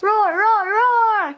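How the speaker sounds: three building dinosaur roars; rising roars. Acted. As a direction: roar on and on, bigger each time. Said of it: "never seemed to take a rest".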